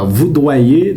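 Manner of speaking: voudoyer drawn out with a "d"; wrong word, slowed. Shown as a demonstration. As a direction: say voudoyer slowly as the mistake. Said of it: "C'est pas". (voudoyer fautif, dit lentement)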